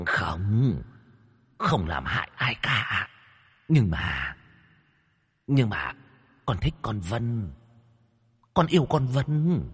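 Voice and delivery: lightly voiced cocky spirit, then wheedling; a hint of a bragging demon begging; boastful ghost. A narrator's reading. Ghost brags then begs the master, lightly voiced.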